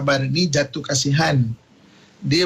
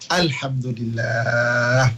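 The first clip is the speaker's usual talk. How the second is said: calm thanks; 5 semitones lower, much slower than usual. Acted. Fatimah's calm grateful reply again.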